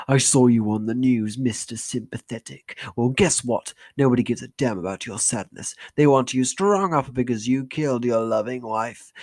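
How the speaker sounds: angry mother rebuking; furious mother. Acted. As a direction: tear into him with fury. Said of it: "a look of fury crossing her face".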